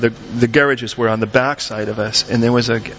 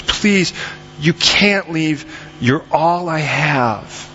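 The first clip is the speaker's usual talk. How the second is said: drawn-out, desperate pleading; mock desperate scream; 3 semitones higher, much slower than usual. Wife begging her husband not to leave, acted desperate plea. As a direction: plead slowly, dragging out each phrase, not truly screaming. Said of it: "she finally screams".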